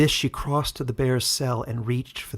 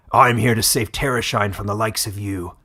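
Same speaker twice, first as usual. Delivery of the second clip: growled; 4 dB louder than usual. Acted. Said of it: "growled the bear".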